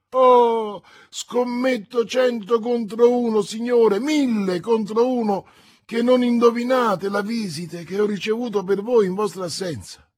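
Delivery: high, loud, fast eager wager; can't hold the news in; excited servant. A narrator's reading. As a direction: servant teases his master with a secret. Planchet bursting with news.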